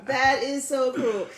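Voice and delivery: drawn-out, laughing through cruel; mock outrage while cracking up; laughing, teasing that's so cruel; laughing protest. Real, not acted. Laughing reaction to mean habit.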